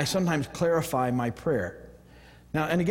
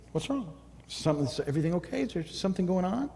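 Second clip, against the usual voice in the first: soft, higher, caring question; gentle concerned asking; 5 semitones higher, 3 dB quieter than usual. Shown as a demonstration. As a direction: ask kindly, as if to a stranger in need. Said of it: "But that's how I say it".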